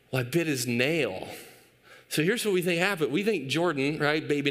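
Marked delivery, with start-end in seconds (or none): 0.1-1.3 imitated son. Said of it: "And he goes".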